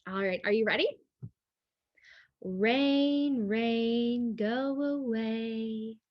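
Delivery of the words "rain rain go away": drawn-out storybook chant; slow refrain read to children; slow read-aloud refrain. Acted. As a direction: stretch each word for the kids. Reading the book's refrain.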